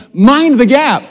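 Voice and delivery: a congregation-leading British accent. Shown as a demonstration. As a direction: call it out in a hammed-up British accent. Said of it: "you gotta say it with a British accent".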